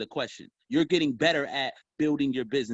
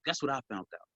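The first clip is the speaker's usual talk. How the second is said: hushed secret; 7 dB quieter, faster than usual. Shown as a demonstration. Salesman teasing a prospect, whispered secret. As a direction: lean in and tell a secret. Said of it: "Like I'm whispering".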